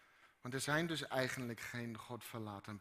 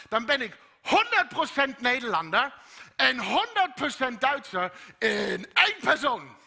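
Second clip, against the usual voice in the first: loud, high, fervent preaching; preaching at full force; 10 semitones higher, 11 dB louder than usual. Acted. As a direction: drive the message home to the congregation.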